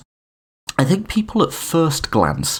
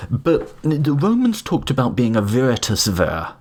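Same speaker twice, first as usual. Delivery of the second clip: Latin accent; 3 semitones higher than usual. Shown as a demonstration. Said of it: "How's my Latin accent".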